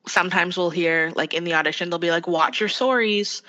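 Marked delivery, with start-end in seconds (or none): 2.3-3.4 "sorries" with a round SORE vowel; Canadian "sorries". Retold or imitated. Casting warning actors in an audition, "sorries" said the Canadian way. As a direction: say "sorries" slowly as SORE-eez. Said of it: "it's sorry versus sorry".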